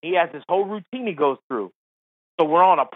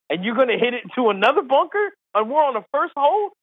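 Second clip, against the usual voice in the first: higher, climbing mock disbelief; incredulous protest; 6 semitones higher than usual. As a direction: retell it as an exasperated, questioning complaint. Scolds golfer in retold exchange.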